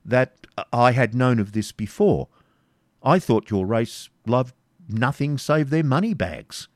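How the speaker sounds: slow, grudging baron's voice; relenting Norman. Acted. Baron answering the pleading Jew, slow and grudging. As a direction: soften just slightly, still scornful. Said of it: "somewhat relenting".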